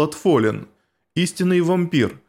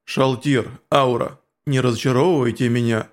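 stern insect warrior; 3 semitones lower than usual. Acted. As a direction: rebuke them low and heavy. Cocytus scolds.

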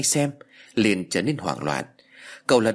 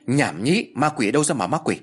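mildly raised scolding; a touch of a snap. Acted. Uncle scolding the boy about ghosts, mildly raised. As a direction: brush it off with a gruff scold. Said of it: "quát to".

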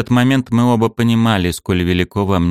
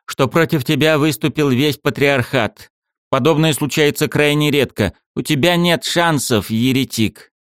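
through gritted teeth; 8 semitones higher than usual. Acted. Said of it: "процедил Александр".

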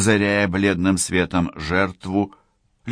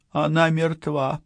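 high, slow, distressed voice; trembling, drawn-out and high; 9 semitones higher, slower than usual. A narrator's reading. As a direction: break terrible news in a small high voice. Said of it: "дрожащим голосом сказала Аусонио".

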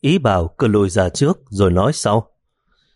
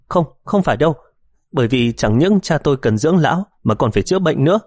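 flustered denial; 5 semitones higher than usual. Acted. Daughter denying in alarm.

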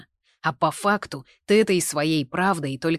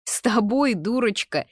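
laughing; 8 semitones higher, 6 dB louder than usual. A narrator's reading. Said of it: "засмеялся Артур".

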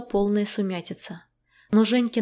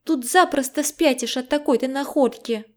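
higher, lively indignant friend; agitated friend voice; 5 semitones higher, 4 dB louder than usual. A narrator's reading. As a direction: voice the rattled friend, a little higher. Zhenya's voice in story.

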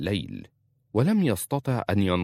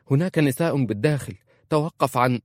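urgent, higher and louder call to stop him; hurried; 6 semitones higher, 4 dB louder than usual. A narrator's reading. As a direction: rush to stop him, raising the voice. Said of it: "فقالت مسرعة". (بسرعة وبصوت عال مرتفع)

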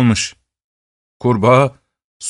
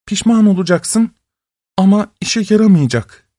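deep sorrow; 8 semitones higher than usual. Acted. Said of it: "Kadın büyük bir acıyla".

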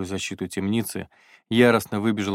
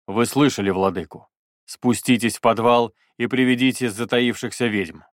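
proclaiming; 2 semitones higher, 4 dB louder than usual. Acted. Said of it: "он вещал".

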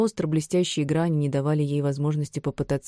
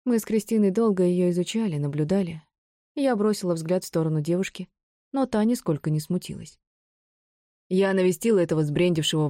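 crazed villainess. Acted. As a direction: rant like a madwoman. Narrator voices mad Bron.

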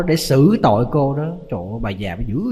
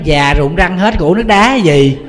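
put-on louder, higher, slower old-woman grumble with a laugh; mock-indignant granny refusing; cranky outburst; 5 semitones higher, 7 dB louder, slower than usual. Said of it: "cái gì bà cũng không chịu hết trơn á". (bà già cằn nhằn lớn tiếng)

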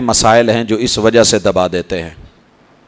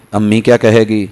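normal talking voice

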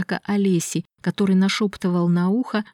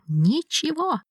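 much higher, frantic refusal; shrill defiance; 8 semitones higher, slower than usual. Acted. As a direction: scream the refusal. Miklash defies his brother. (истеричный отказ)

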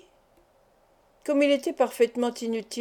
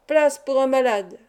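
calling out; 2 semitones higher, 4 dB louder than usual. Acted. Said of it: "jeta ces mots".

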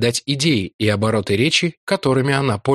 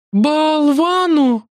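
much higher, very slow wondering drawl; puzzled drawl; 4 dB louder, much slower than usual. A narrator's reading. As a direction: stretch the strange word out. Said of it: "удивлённо протянула Лакла".

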